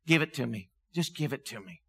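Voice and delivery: low, softened invitation, dropping to very quiet; gentle coaxing. Retold or imitated. God stepping in to help, tender retold offer. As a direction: coax them quietly to hand it over.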